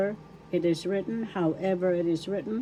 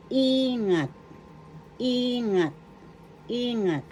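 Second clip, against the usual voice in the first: ingat, first syllable in higher, falling; stress on first syllable; 5 semitones higher than usual. Shown as a demonstration. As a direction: hit the i of ingat. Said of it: "The accent is in the first syllable".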